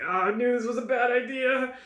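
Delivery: high-pitched, hammed-up woe; mock lament. Game master voices the dead man's companion, mock lament. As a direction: wail it in pretend dismay. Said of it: "starts crying, just tears".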